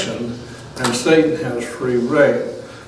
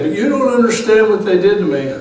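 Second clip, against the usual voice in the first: mock aggrieved listener; 8 semitones higher, faster than usual. Preacher mimicking a listener who won't forgive, high mock whine. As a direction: play the hurt churchgoer, hammed up.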